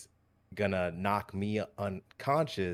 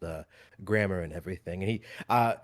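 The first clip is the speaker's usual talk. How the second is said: ordinary talk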